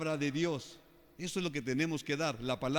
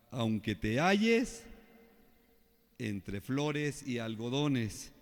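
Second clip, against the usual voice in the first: scripture reading; slower than usual. Acted. Preacher reads God's charge to the congregation, slow solemn proclamation. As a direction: proclaim it, then weigh every phrase slowly.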